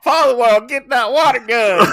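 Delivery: high, shouted Texas twang; loud mock-Texan battle cry; hammed-up Texas accent. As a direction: bellow the command like a Texan. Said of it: "my Texas accent came out there".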